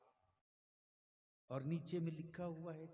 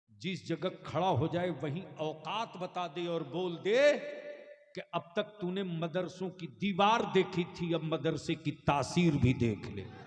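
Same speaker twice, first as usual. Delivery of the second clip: preaching shout; 3 semitones higher, 17 dB louder than usual. Real, not acted. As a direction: throw it out as a defiant dare. Fiery sermon climax. (ललकारते हुए धीमी और बहुत ऊँची आवाज़)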